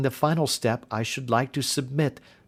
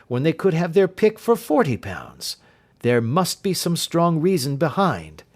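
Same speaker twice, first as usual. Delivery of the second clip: Holmes, higher and louder, uneasy and insistent; the detective pressing his doubt; 6 semitones higher, 3 dB louder than usual. Acted. Holmes warns the governess about the pay, insistent and raised.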